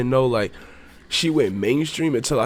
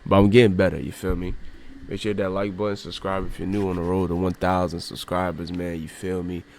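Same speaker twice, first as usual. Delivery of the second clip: tissue up one nostril. Real, not acted. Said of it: "as y'all can see by the tissue in my nose".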